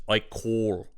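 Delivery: low, soft mock Russian accent; hammed-up Russian card-player accent; John Malkovich. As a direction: do a fun, inaccurate Russian accent. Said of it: "impression of Malkovich from, uh, Rounders".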